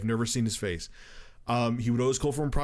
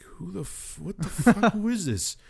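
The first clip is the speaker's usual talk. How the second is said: mock outrage; 7 semitones higher than usual. Angry retold reply to caller.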